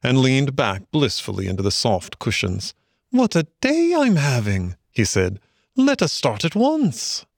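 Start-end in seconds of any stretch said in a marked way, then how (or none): 3.1-4.8 high, delighted exclamation; overjoyed Mole; blissful. A narrator's reading. Mole blissfully happy in the boat. 5.8-7.2 very high, drawn-out eagerness; thrilled Mole raring to go; eager. A narrator's reading. Happy Mole eager to set off.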